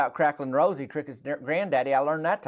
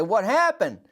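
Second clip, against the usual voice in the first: alarmed question; 7 semitones higher, 4 dB louder than usual. Retold or imitated. Asking shaken granddaddy.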